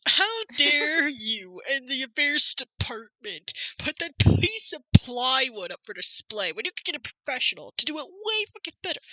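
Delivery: a pompous Brit scolding Phoenix; hammed-up British outrage. Edgeworth scolding Phoenix in a mock British accent. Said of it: "when did you get British?".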